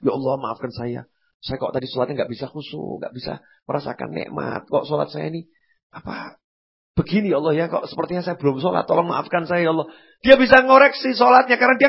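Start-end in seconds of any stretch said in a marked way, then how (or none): 0.0-9.9 crying prayer. Retold or imitated. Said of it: "salam aja pakai nangis dia".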